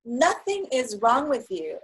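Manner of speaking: firm, caring reassurance in a put-on voice; therapist's reassurance. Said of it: "she's like".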